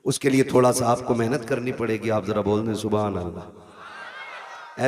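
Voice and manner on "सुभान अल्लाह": soft, slow, half-hearted drawl; a feeble, dragged-out mock reply; weak, lazy response. Shown as a demonstration. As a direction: show the limp way not to answer. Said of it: "ऐसा नहीं".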